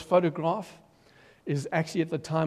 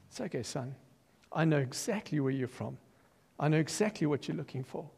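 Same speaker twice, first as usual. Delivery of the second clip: much softer, gentle fatherly reassurance; tender comfort; 6 dB quieter than usual. Pretend. God gently reassuring a searching son, soft and tender. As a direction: hold him close with your voice.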